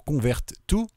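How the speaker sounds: French speaker's attempt at an English accent. Real, not acted. Tutorial host reading a menu command aloud, English accent. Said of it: "mon superbe accent anglais".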